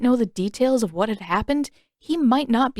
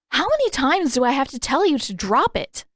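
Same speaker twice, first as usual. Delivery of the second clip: irritated glare; 5 semitones higher, 3 dB louder than usual. Acted. Katara glaring at Sokka.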